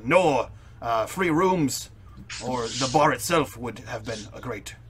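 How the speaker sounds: lightly put-on formal character voice; pompous adventurer, aggrieved. Adventurer complains of an ungrateful bar owner, lightly voiced, formal. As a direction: complain in measured, over-proper phrases.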